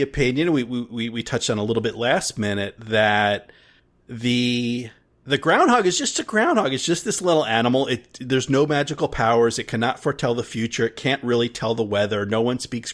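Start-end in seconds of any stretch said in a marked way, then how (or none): 5.3-7.9 dismissive. Retold or imitated. Mock skeptic townsfolk view.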